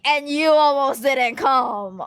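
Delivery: slow, smug told-you-so; mock-annoying gloat at mom; teasing gloat. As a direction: rub it in playfully. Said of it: "I have to take the opportunity to be annoying".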